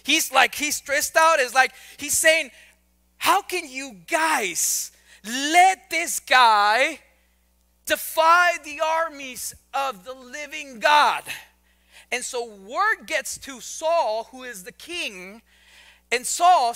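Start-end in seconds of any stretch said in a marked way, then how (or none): 3.2-11.2 worked up. Retold or imitated. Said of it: "David is getting a little worked up".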